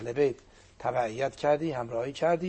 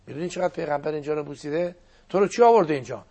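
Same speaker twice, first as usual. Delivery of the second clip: louder, sharp rebuke; stern challenge; 5 dB louder, faster than usual. Retold or imitated. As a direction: confront him with it. روایت گفتگوی امام با شمر. (توبیخ تند و بلند)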